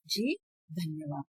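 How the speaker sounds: soft, timid thanks, a touch shaky; trembling voice. Acted. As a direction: murmur it, barely daring to speak. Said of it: "कांपते स्वर में कहने लगती है". (कांपती, धीमी आवाज़ में)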